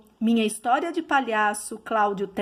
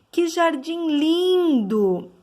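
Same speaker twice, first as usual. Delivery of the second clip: slow, admiring exclamation, raised higher and louder; exclamation intonation; 4 semitones higher, 3 dB louder, slower than usual. Shown as a demonstration. Teacher demonstrating an exclamation to the class, slow and admiring. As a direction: marvel at the garden, drawing the words out. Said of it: "Perceberam que nós conseguimos, na fala, entonar essa expressão".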